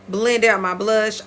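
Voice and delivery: accidental Southern twang; words slipping into a Southern US accent. Real, not acted. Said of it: "I don't know where that southern accent".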